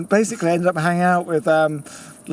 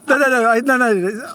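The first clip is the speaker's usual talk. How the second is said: laughing protest; 6 semitones higher, 4 dB louder than usual. Retold or imitated. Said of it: "I just go".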